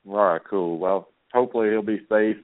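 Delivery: talking while eating crackers; words around a mouthful; mouth full. Real, not acted. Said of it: "Sorry, I'm eating some crackers right now".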